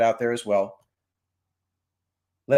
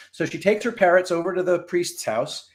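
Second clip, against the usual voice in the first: ordinary talk, nothing marked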